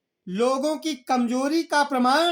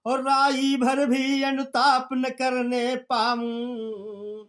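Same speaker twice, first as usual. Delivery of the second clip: slow, sung-out poem line; slow chanted poetry reading; verse recitation; slower than usual. Acted.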